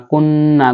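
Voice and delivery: "কুন না" with a held nasal n; ghunnah. Shown as a demonstration. Teacher shows the nasal rule, held n in "কুন না". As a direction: hum through the doubled n in "কুন না". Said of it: "গুণনা করে পড়তে হবে".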